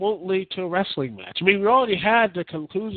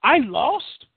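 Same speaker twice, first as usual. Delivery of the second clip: higher, slower mock outrage at losing; indignant disbelief, higher and slower; stunned disbelief; 8 semitones higher, slower than usual. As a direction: play a shocked champ who can't believe he lost. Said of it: "And A J just like".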